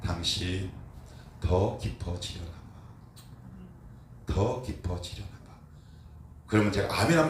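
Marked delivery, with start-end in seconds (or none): 0.0-5.5 retold comfort. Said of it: "위로의 말을 건넵니다".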